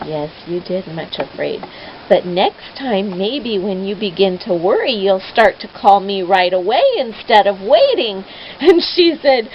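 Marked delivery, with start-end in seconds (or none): 0.1-8.2 put-on shepherd calmly advising the girl; gentle reassurance.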